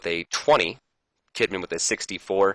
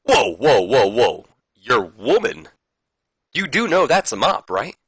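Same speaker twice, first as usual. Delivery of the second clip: incredulous; 4 semitones higher, 5 dB louder, slower than usual. Retold or imitated. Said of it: "Snow goes".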